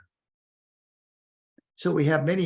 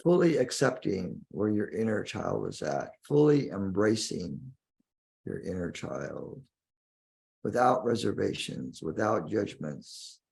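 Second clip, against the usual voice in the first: guided meditation. Acted. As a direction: guide the listener inward, lingering on key words.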